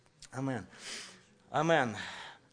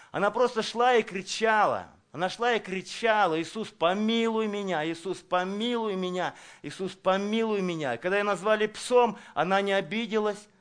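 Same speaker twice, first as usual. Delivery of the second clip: fervent preaching; 4 semitones higher, 3 dB louder than usual. Acted. Preacher acting the woman's plea.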